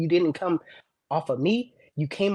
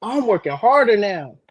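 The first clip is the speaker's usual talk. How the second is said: forceful rasping whisper, higher; loud whisper; 5 semitones higher, 6 dB louder than usual. Real, not acted. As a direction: hiss it with intensity. Intense whispered boast.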